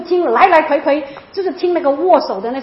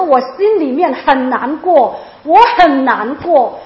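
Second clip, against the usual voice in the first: slow, louder lament, drawn-out words; retold tearful prayer; 4 dB louder, much slower than usual. Praying to God while walking in the rain, sorrowful. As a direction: plead heavily, stretching out the hurt. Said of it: "就哭了哈".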